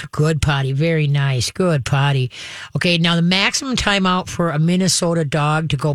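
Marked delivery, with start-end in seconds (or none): 0.1-2.3 very calmly. Shown as a demonstration. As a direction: praise gently, no excitement. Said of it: "very calmly go".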